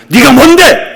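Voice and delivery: high, loud, fierce rebuke; bold rebuke. Shown as a demonstration. Preacher modeling how to face illness, fierce rebuke. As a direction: snap it back at the enemy. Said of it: "이렇게 나가라".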